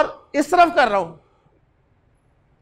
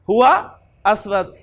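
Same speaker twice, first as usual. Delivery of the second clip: slow drill; 3 semitones lower, much slower than usual. Shown as a demonstration. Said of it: "ये उलट हो गया".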